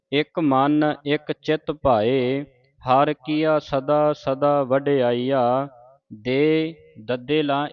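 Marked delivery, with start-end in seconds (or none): 0.1-5.7 very slow syllable by syllable recital; slow scripture recital. Shown as a demonstration. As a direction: recite it slowly for learners. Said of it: "ਉਚਾਰਨ ਸਿੱਖਣਾ ਹੈ".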